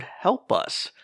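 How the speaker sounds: silently mouthed, high and breathless; mouthed words. Retold or imitated. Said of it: "I saw him mouth the word".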